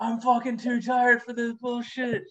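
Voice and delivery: high, slow whine of a wiped-out parent; acted middle-of-the-night complaint; exhausted exasperation. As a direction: drag it out, high and fed up. Voicing worn-out parent at night.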